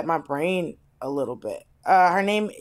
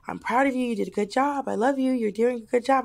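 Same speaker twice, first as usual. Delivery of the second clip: gentle, quieter reassurance; a touch of tender praise; soft comforting voice; 3 semitones higher, 3 dB quieter than usual. Retold or imitated. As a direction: soothe like a kind piercer. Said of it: "she was like".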